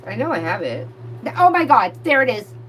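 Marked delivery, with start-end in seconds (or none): 1.2-2.5 excited discovery. Real, not acted. Finds the card she searched for.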